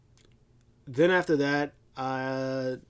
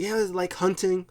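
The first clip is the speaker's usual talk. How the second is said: higher, eager voice; mildly acted-out delight at a favourite hobby; happy, retold; 6 semitones higher than usual. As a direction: sound pleased to be talking hunting. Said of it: "he starts getting happy".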